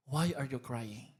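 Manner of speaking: lightly modelled question to a neighbour; gentle question. Shown as a demonstration. Models question to ask your neighbor.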